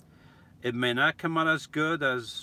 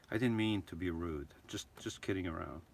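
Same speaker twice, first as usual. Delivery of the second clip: sheepish apology; 4 semitones lower, 6 dB quieter than usual. Real, not acted. Apologizing after his mock rant.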